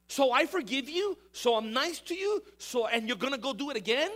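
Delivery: a stern God calling out ingratitude; indignant God voice. Pretend. Preacher voicing God scolding a repeat sinner, indignant.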